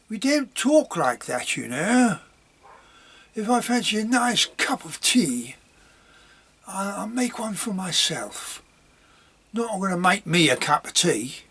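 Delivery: a hint of a London lad's accent. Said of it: "when I talk like that, that's a typical Londoner".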